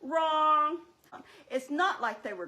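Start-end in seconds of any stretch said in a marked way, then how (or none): 0.0-0.8 loud, firm single word; emphatic correction. Acted. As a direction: shut the idea down hard. Flat correction of friend's claim.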